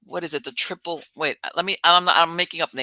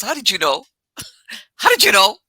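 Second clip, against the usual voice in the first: astonished; 4 semitones higher, 4 dB louder than usual. Retold or imitated. Boyfriend astonished, laughing.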